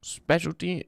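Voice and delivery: high, loud, drawn-out Brother; Sketch impression. Streamer doing his Sketch impression for chat, high and loud. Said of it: "That's me doing my Sketch impression".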